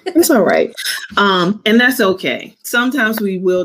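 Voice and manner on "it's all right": a small daughter soothing her mother; daughter comforting. Retold or imitated. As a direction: comfort mommy like a little girl. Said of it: "every time you do something".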